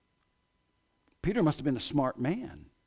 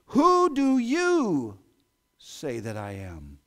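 drawn-out, weighty question; slow solemn question; 4 dB louder, much slower than usual. Acted. Jesus asks his disciples, slow and solemn. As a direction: let each word land slowly.

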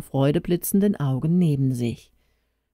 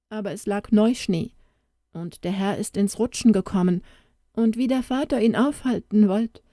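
put-on lightly raised little girl voice, sad; a young girl telling grim news, voice lifted higher; child Tona; 6 semitones higher than usual. Little girl tells the stranger her parents died, higher child voice.

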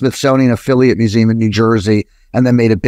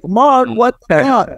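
put-on high, slow, stunned outburst at an old friend; stunned disbelief; 10 semitones higher, slower than usual. Recognizing his childhood friend after thirty years, stunned disbelief. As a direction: drag it out in sheer disbelief. Reuniting with long-lost kindergarten friend.

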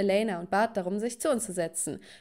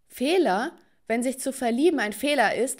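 higher, louder offended retort; indignant; 3 semitones higher, 4 dB louder than usual. Acted. Daughter defends her love against father, indignant. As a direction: throw the word back as a sharp question.

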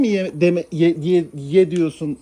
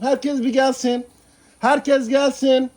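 very slow, higher sing-song call; drawn-out call; 5 semitones higher, much slower than usual. Shown as a demonstration. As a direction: stretch Herkes gelsin out slowly and higher.

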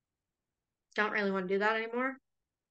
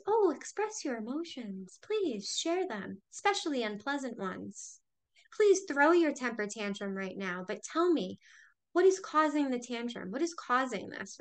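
a hint of a sugary caring parent; mock parent; 3 semitones higher than usual. Imitating the parent kids never had, gently coaxing. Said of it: "We're not taught as kids".

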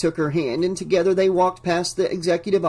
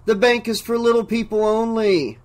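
strange dazed voice; 6 semitones higher than usual. Acted. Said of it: "the same strange voice".

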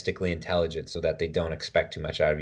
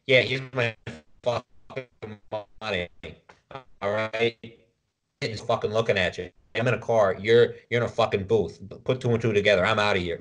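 slightly raised, swaggering brash tough-guy rant; tough guy at a toll booth; 3 semitones higher than usual. Retold or imitated. A hint of a brash driver sneering at the toll booth worker. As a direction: mouth off like a hothead paying a toll. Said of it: "I hit a toll room like".

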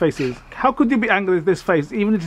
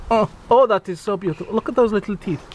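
tender admiring coo; 3 semitones higher than usual. Acted. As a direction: coo over the little face. Admiring bat's face.

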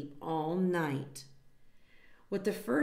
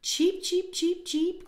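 high, loud chick peeps; chick cheeping; 11 semitones higher, 5 dB louder, slower than usual. A narrator's reading. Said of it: "cried the young one".

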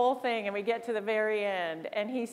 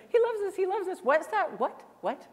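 excited whisper-giddy; 8 semitones higher than usual. Retold or imitated. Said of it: "me and my rep are looking".

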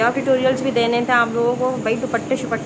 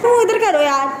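shouting down; 3 semitones higher than usual. Real, not acted. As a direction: yell it down to your sister. Shouting down to sister.

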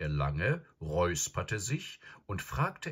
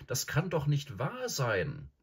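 high, drawn-out disbelief; protesting cry; 9 semitones higher, slower than usual. Acted. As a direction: exclaim it slowly, high-pitched. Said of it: "rief Peter".

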